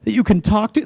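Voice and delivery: a stranger offering heartfelt comfort; tender sympathy. Retold or imitated. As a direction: comfort her gently, voice lifting. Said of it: "and she said".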